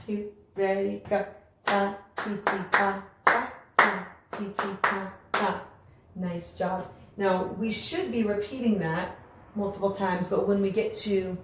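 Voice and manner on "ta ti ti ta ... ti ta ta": the same ta ti chant, a bit quicker; slightly faster rhythm chant; a little faster. Shown as a demonstration. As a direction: push the tempo up slightly, still on the beat. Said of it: "do a little bit faster".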